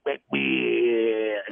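mild sportscaster blurt; Chris Berman. Retold or imitated. Showing Berman's blurting style, lightly voiced. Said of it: "the same thing as Chris Berman".

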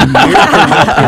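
laughing. Real, not acted. Laughing at Miracle Whip.

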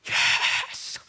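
hoarse, breathy drawn-out yes; airy mock-roar of triumph; triumphant celebration. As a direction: let out a long, voiceless victory cry. Celebrating the fifth free throw.

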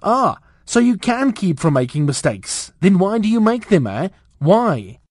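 rising, scolding demand, pitch up; angry teacher. Acted. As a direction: berate the pupil, voice climbing. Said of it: "The teacher's rage rose by one degree".

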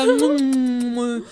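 lightly voiced French skunk; Pepe Le Pew. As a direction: croon it like a French lover. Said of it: "e ele lá".

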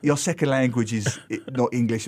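retold condescending explanation; patronizing. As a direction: talk down to someone as if they barely understand. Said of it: "I was really being patronizing".

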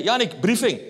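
a touch of a brisk commanding wife; clipped order like a superior officer; wife summoning husband to a briefing, lightly commanding; curt wife's order. Retold or imitated. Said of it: "Zo praat hij tegen mij".

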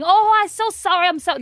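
loud, high mock Italian apology; thick Italian accent. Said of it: "in a thick Italian accent".

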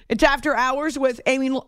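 talking round a cough drop in mouth; mouth full. Real, not acted. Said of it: "I have a cough drop in my mouth".

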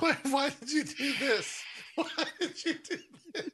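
high-pitched, laughing question. Real, not acted. Co-host cracking up at the vampire act, laughing. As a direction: barely get it out through laughter.

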